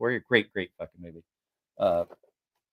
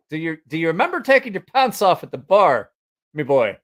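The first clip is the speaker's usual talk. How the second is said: high, loud mock British teasing; botched British accent; 4 semitones higher, 5 dB louder than usual. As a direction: tease in a fake British accent. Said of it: "can't do a British".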